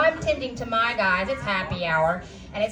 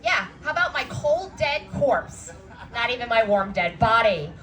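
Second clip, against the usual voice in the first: sarcastic come-on. Retold or imitated. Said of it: "I was like".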